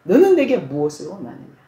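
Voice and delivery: mild solemn divine voice; low dignified voice of Jesus. Retold or imitated. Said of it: "목소리 톤도 나지막하게 아주 점잖은 목소리로".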